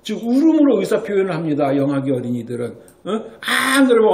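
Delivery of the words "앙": imitated baby cry. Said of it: "엄마 날 좀 도와주세요".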